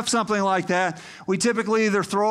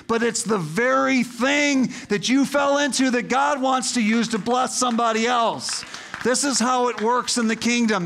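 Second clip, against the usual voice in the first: higher-pitched, urgent pulpit delivery; impassioned preaching; 5 semitones higher than usual. Real, not acted. Preacher reassuring people who thought themselves damaged goods, impassioned. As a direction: press each point home to the congregation.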